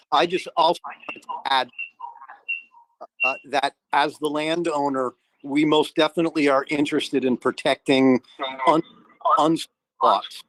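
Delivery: choppy call audio cutting out; buzzy glitchy call audio. Real, not acted. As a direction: voice breaking up over a bad connection. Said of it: "You're breaking up a little".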